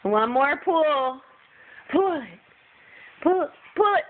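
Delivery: tug of war. Real, not acted.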